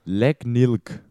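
"Legnilk" read as a reversed word; backwards speech. Shown as a demonstration. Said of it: "Mit dem Spiel Wörter rückwärts". (rückwärts gesprochen: "Legnilk")

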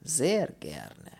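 wistful Polish character; longing. Acted. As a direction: say it with hungry relish. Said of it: "Ein Schimmer von Sehnsucht".

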